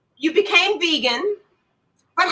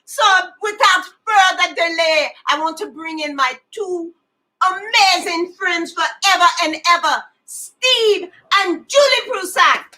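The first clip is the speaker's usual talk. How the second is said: lightly put-on Jamaican announcer; Jamaican accent. Host brings in two amazing friends, mock Jamaican accent. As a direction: introduce the guests in a loose Jamaican accent. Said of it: "say it in a Jamaican accent".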